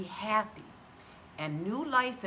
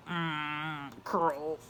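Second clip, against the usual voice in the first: failed moo; 4 semitones lower than usual. Acted. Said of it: "Freddy tried to moo".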